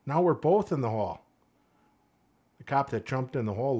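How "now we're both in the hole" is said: high, loud, exasperated jab; mock exasperation. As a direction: scold him like a foolish buddy. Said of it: "looks at him and goes".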